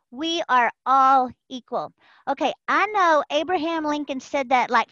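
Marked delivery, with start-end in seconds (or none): 0.1-1.9 mantra. Shown as a demonstration. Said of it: "she said it".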